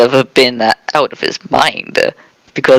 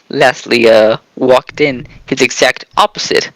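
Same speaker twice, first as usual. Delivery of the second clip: put-on Jamaican accent. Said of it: "why are you talking in a Jamaican accent now?".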